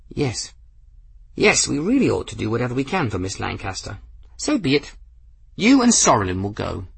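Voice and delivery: put-on high, airy eccentric old gentleman; old man voice. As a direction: play a whimsical elderly wizard. Narrator voices Ferris.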